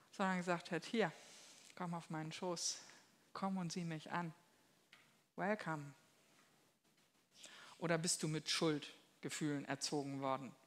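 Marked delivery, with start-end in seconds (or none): 0.8-5.9 zärtliche Einladung. Retold or imitated. Liebender Vater ruft Kind.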